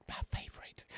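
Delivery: mocking slipped-in whisper; teasing stage whisper; imitating a whisper. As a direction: whisper it like a slip. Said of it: "slip up and whisper".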